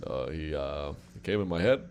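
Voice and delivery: halting impression, lifting each phrase end; Obama. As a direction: pause on "uh", then rise at the end. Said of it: "Now I talk like Obama".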